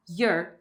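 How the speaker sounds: "your" with a short er vowel, no "or"; reduced "your". Shown as a demonstration. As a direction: say "your" like "yer". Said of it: "Os dois podem ser utilizados".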